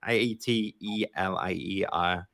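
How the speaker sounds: careful spelling out. Real, not acted. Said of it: "And for the audio listeners".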